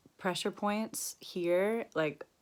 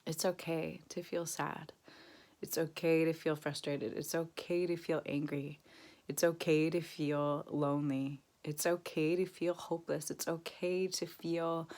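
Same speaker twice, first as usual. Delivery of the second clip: gentle reassurance. Shown as a demonstration. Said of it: "you want to say".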